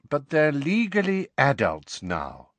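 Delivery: weary reasoning; worn-out, patient husband; tired voice. A narrator's reading. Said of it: "in the same tired voice".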